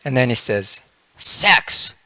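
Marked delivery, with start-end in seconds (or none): 1.2-1.9 high, startled burst on one word; shocked yogi. Retold or imitated. Celibate yogi reacting to his wife's hint, shocked outburst. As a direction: blurt it out in mock horror.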